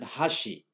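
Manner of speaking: "hashi" slowly, with the contrasting pitch pattern; pitch accent. Shown as a demonstration. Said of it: "by the changing the pitch".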